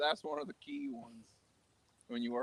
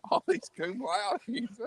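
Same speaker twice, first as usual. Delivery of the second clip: slow, louder, drawn-out announcer tone; mock announcer; 8 semitones higher, 7 dB louder, much slower than usual. Joking about graduates, slow mock announcer. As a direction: stretch the words like reading honors.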